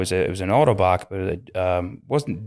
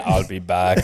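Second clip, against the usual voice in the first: put-on Terminator accent; 3 semitones lower than usual. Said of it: "That was good accent too".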